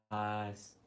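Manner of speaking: put-on slow, soft, lightly done Borat accent; hint of Borat. Streamer praising the cat in a light Borat accent. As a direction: drawl it out like a mild Borat. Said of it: "Borat says".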